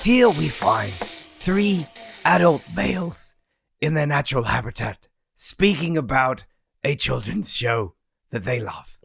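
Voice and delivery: nature documentary narrator; David Attenborough. Acted. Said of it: "It started David Attenborough".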